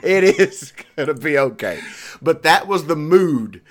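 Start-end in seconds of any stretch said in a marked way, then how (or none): 0.0-1.8 laughing reply. Retold or imitated. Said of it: "I laugh my dick off and say".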